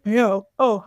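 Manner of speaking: mid-yawn, mouth wide open. Real, not acted. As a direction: talk through a yawn. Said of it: "I'm yawning".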